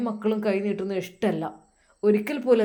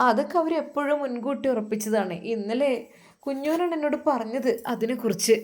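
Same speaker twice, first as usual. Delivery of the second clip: worried wife; 5 semitones higher than usual. Acted. Wife voiced.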